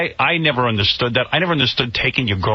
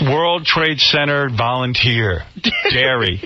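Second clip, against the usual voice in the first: slow mock title read; slower than usual. Shown as a demonstration. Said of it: "he put the word dairy".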